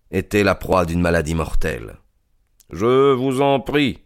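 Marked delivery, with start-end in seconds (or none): 2.7-4.0 doucement. A narrator's reading. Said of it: "dit Holmes doucement".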